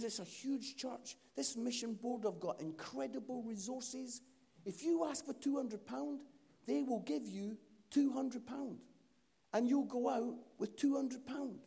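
high-pitched, emphatic lecture; exasperated explaining. Retold or imitated. Gentleman warning Mark against asking too little, exasperated. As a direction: spell it out for someone who hasn't grasped it. Old gentleman argues for bigger request.

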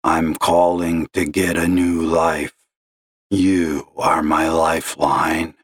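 slow gravelly despair; a despairing caller's gravelly drone; gloomy gravelly caller. Acted. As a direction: sigh it out like a lost man. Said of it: "gravelly voice like that".

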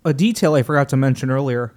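straining through water in the throat; coughing up water. Real, not acted. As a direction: talk past a choke on water. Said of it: "Water went down the wrong pipe".

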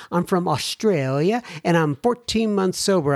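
put-on half-hearted stab at an Australian accent; bad Australian accent. Host reading Melissa's letter aloud, rough Australian accent attempt. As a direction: give Australian a shot, badly. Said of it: "it's a bad accent".

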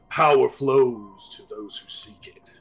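booming amplified voice; amplified yell. Acted. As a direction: call it out as if through a speaker. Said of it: "he just yells that out, kinda amplified voice".

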